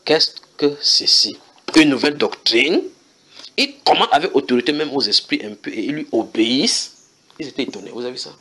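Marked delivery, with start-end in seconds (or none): 0.0-5.7 astonished crowd. A narrator's reading. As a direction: gasp it out in wonder at the new teaching. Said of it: "saisis de stupéfaction".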